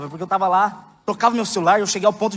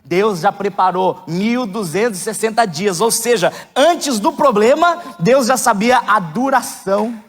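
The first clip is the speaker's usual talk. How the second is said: raised, fervent sermon voice; preaching; 4 semitones higher, 5 dB louder than usual. Acted. Pastor preaching to the congregation with fervour. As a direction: preach it out to the church.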